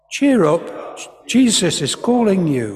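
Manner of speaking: lifted, projected group line; calling out. Acted. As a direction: call over to someone in a crowd. Leading men as calling crowd.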